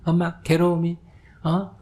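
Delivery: a hint of a smug child lecturing mom; preachy child. Child lectures her mother like a monk, lightly mocking. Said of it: "이렇게 얘기하면 안 된다".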